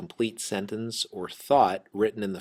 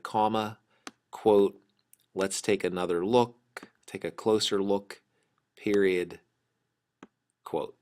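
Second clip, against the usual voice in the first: dictating. Shown as a demonstration. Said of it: "It would be Kelsey said".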